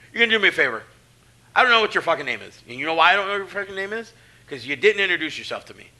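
retold dressing-down. Veteran scolding a rookie who didn't introduce himself, loud. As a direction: chew the rookie out.

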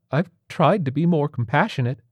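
high, acted tearful protest; sobbing. A narrator's reading. Patient defends his parenting to the tiger surgeon, sobbing. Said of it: "Rawlings sobbed".

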